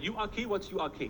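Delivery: mildly mocked bewilderment; puzzled echo. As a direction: echo the odd phrase as a confused question. Puzzled echo of the Russian's words.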